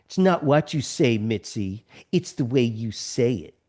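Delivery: lightly voiced nagging friend, nose scrunched; a hint of a snooty scold; mock scolding with a scrunched nose. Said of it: "the way I scrunch up my nose".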